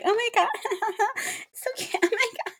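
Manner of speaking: high, fast, laughing oh my God; laughing reassurance. Retold or imitated. Recalling his first reaction to the date, laughing fast. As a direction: giggle it out quickly. Retelling being reassuring then upset.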